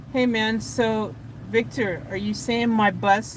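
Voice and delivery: trying to play it cool, measured; straight-faced cool. Pretend. Rehearsing a question to Victor about his bus, straight-faced. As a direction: hold back giddiness and sound nonchalant. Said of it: "say it with a straight face and be cool".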